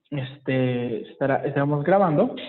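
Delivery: words stretched by a yawn. Real, not acted. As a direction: talk through a yawn. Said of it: "por eso estoy bostezando".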